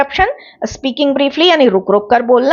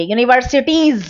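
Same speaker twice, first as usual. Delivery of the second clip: यूनिवर्सिटीज with the closing S sound pressed and held; stress on final S. Shown as a demonstration. Teacher showing students the effort, यूनिवर्सिटीज with emphasised S. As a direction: lean on the last sound of यूनिवर्सिटीज. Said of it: "एस पर जोर देना पड़ रहा है".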